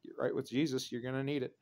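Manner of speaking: understated, chillingly calm advice; voice of death. Shown as a demonstration. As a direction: deliver the threat quietly, with no heat at all. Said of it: "The voice of death is".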